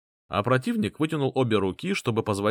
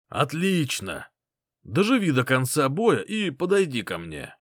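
commanding reply; 4 semitones higher than usual. Acted. Commander answers soldier.

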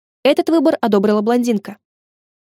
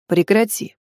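restrained warning; 2 semitones lower, slower than usual. Acted. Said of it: "сдержанно проговорил мужчина".

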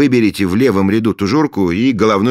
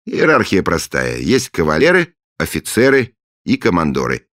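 cheerful; 10 semitones higher, 7 dB louder than usual. Acted. Friendly Nep after ritual.

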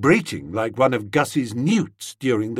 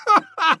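scornful laugh; 4 dB louder than usual. Acted. Bertie laughs at the idea.

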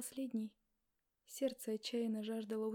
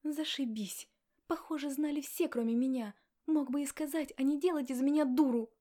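loud furious outburst; angry exclamation; 4 semitones higher, 9 dB louder than usual. Acted. Betrayed wife shouting at him, loud angry outburst. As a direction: let it build to a loud cry. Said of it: "воскликнула я".

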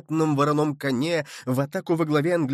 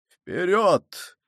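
higher-pitched rallying cry; excited shout; 4 semitones higher than usual. A narrator's reading. King carried away by the charge, crying out. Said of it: "крикнул тоже король".

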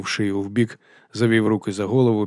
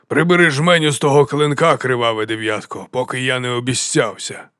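loud, raised cry easing off; excited exclamation; 3 semitones higher, 5 dB louder than usual. Acted. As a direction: burst out, then settle. Kramok cries out before the Bloody-Nine.

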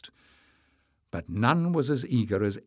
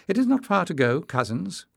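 high, loud call over his shoulder; 8 semitones higher, 4 dB louder than usual. A narrator's reading. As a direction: call back to them down the path. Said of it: "called Emless".

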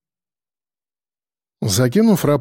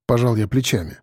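usual speaking voice

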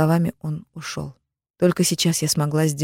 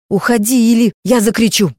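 raised, higher and louder warning; firm warning to the intruder, raised and loud; serious threat; 5 semitones higher, 6 dB louder than usual. A narrator's reading. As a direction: threaten to scream, voice up. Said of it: "серьёзно сказала".

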